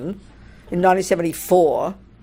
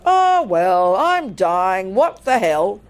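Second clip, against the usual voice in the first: drawn-out, unbothered shrug in the voice; mock resignation; much slower than usual. Drowning man with no fear of death, mock resigned. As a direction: give up casually, stretching the words.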